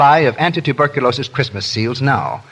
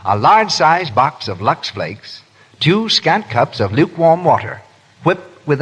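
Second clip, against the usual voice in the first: slowed down, each item spelled out; slow recipe repeat. Shown as a demonstration. Announcer repeating recipe for home listeners, slow and deliberate. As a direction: read the recipe slowly so listeners can note it. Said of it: "Want me to repeat the recipe?".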